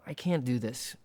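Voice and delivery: a sigh, then a faint hint of a weary mother; mother's voice, lightly voiced. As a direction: barely voice the tired mother. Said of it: "that's what she's saying".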